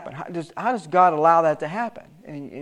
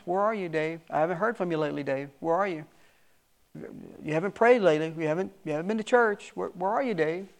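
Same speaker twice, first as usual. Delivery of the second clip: gentle calling voice of God; 6 dB quieter than usual. Acted.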